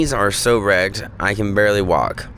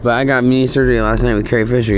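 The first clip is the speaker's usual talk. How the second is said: higher, louder proud announcement; excited; 4 semitones higher, 4 dB louder than usual. Shown as a demonstration. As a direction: blurt it out with pride. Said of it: "Oh, I forgot".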